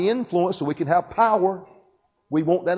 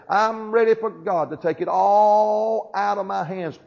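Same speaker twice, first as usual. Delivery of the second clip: bold declaration; 3 semitones higher, 3 dB louder, slower than usual. Acted. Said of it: "Could anyone in this house say".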